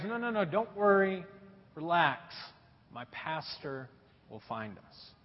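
calm reassurance. Retold or imitated. Calm friend reassures again.

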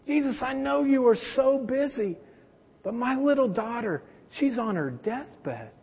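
lightly voiced worried father, quiet and urgent; pleading father. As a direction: beg him to come save your daughter. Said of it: "And he goes".

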